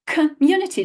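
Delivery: "community" starting kuh, with no O sound; schwa first vowel. Shown as a demonstration. Teacher shows the schwa, "community" opened with a short kuh. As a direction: shrink the O in "community" to uh. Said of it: "it's not an O sound".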